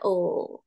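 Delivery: O dips low; drawn-out, low dipping O; third tone. Shown as a demonstration. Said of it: "Kemudian nada tiga". (O dengan nada tiga yang rendah)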